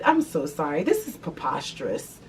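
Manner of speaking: quietly scandalized customer; proper concerned voice. Retold or imitated. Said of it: "I came back and I said".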